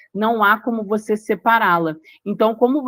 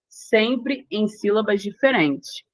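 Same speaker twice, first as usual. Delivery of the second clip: slow emphatic restatement; 2 semitones higher, slower than usual. Shown as a demonstration. Teacher restates rule slowly.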